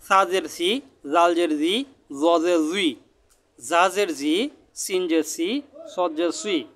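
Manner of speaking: each sibilant distinct, from "সা জের সি" to "সদ জের সুই"; careful articulation drill. Shown as a demonstration. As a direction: chant "জা জের জি" with a held ee. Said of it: "আমি হরফটি কিভাবে উচ্চারণ করতেছি".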